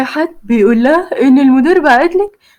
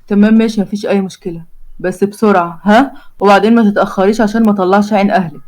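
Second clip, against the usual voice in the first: lower, teasing groom; Omar's voice; 3 semitones lower than usual. Acted. The groom teases his bride-to-be, lightly lower. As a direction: flirt with a cheeky grin. Omar orders her.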